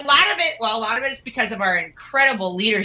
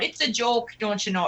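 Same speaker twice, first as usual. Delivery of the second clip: put-on Minnesota accent; 7 dB quieter than usual. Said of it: "Minnesota accent comes out".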